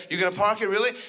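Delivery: light mock Indian accent; half-hearted Indian parking attendant. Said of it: "That was supposed to be an Indian accent".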